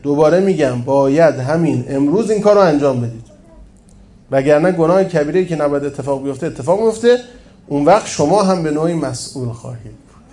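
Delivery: pressing, emphatic quoted order; emphatic insistence. A narrator's reading. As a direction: insist on it with weight. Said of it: "هام تأکید کرد".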